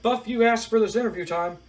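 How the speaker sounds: a hint of a veteran interviewer. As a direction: play the puzzled announcer pressing for answers. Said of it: "Mean Gene's just like".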